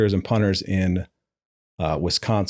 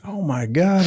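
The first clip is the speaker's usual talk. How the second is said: shocked oh my God; 10 semitones higher, slower than usual. Retold or imitated. Realizing he drove wrong way.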